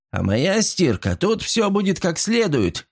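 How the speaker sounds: determined. A narrator's reading. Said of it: "решительно заявила Дебора".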